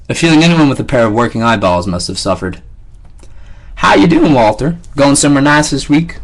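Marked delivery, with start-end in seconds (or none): 3.8-6.2 guard's greeting. Acted. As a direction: greet him like a pushy guard. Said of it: "one inquired".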